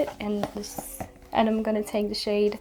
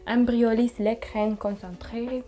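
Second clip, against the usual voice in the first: more careful French pronunciation, French r in Concentré; French accent, retried. Shown as a demonstration. Vlogger redoing the product name after a poor try, careful French accent. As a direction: have a better go at a French accent. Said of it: "not my best French accent".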